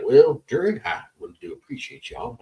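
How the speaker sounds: lightly voiced folksy judge; a hint of a judge addressing the jury. Judge thanking the jury after the verdict, lightly put-on judge voice. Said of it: "my go-to judge voice".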